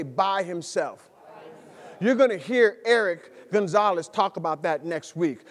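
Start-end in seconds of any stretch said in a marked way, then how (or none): 0.0-1.1 BY said slow and falling, the congregation should echo it; "By himself." slow and falling, for the whole church to repeat; slow call and response. Shown as a demonstration. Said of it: "Everybody say".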